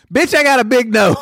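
high, mocking quoted comeback; mock sassy retort. Mocking a casino worker over her mask. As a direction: toss it off like a sassy clapback.

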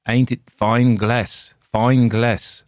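creepy optician gloating over his sale; harsh, sardonic peddler. A narrator's reading. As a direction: grin sardonically while drawing it out. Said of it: "asked Coppola in his harsh, unpleasant voice, smiling sardonically".

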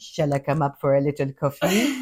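a British man's attempt at sexy French; French accent. British man trying to get sexy, mock French accent. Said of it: "has to say it in an accent, usually French".

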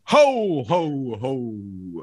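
a lightly voiced jolly Santa; Santa laugh. Cohost says the Santa sounded like a coach impression, ho ho ho. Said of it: "It sounded like our Billy Donovan impression".

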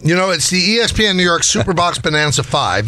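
upbeat live promo read; radio contest promo. Acted. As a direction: read it like an on-air giveaway.

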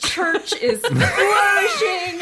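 dreamy Savarite. Retold or imitated. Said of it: "She's like".

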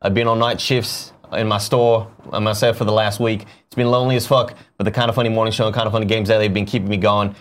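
put-on reading a viewer's tip in a light Australian accent. Reading an Australian fan's tip to the chat in his accent. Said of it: "let me read in the Australian accent".

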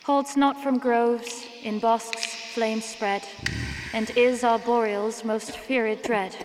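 solemn preacher reciting verse to the village; sermon recital. Acted. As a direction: intone the poem like a sermon from the pulpit. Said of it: "She's holding a sermon right now".

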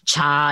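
"Cha" said with a hard CH; misread name. Retold or imitated. Complaining of misreadings, "Cha" with hard CH. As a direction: say "Cha" as spelt, with CH as in chat. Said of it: "we learn our accents".

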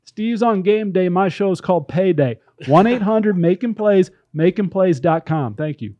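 mock tout's sales pitch; lightly put-on infomercial huckster; gambling ad read. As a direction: sell betting picks like a hammy pitchman. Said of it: "This is a gambling ad".

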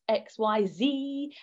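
"Z" said the American way, as "zee"; American letter names. Retold or imitated. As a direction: end the alphabet on "Z" pronounced zee.

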